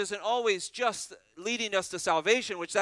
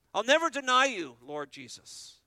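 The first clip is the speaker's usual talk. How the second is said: Peter's eager vow; 5 semitones higher, 5 dB louder than usual. Retold or imitated. Peter's vow voiced in sermon.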